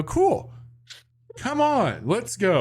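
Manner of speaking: high, bright, eager invite; eager student. Retold or imitated. Student inviting the professor to Superbad, high and eager. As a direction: rush them along with excitement. His own younger self voiced.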